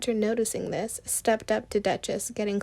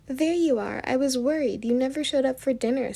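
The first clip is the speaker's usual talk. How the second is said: relieved; 4 semitones higher, 5 dB louder than usual. A narrator's reading. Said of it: "hugging her sister in relief".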